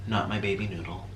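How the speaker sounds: ordinary talk, nothing marked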